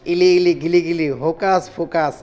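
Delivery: put-on kids party magician. Magician chanting magic words again.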